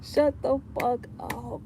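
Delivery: high, slow, loud outburst; high loud shout. Real, not acted. Telling the nosy woman off, high loud shout. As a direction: snap it at her. Repeat, slower.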